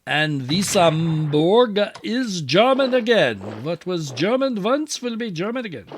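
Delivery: a gloating German general proclaiming it in a bad German accent. Gamer voicing the German side over Wissembourg, in a bad German accent. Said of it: "Sorry for the bad accent".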